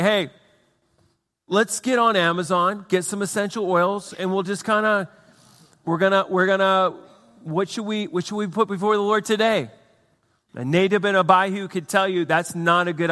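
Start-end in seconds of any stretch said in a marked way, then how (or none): 0.0-9.7 higher, lightly hammed-up flippant pitch; mock casual suggestion. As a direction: toss out a half-baked idea as if making it up. Mock casual improvised worship suggestion.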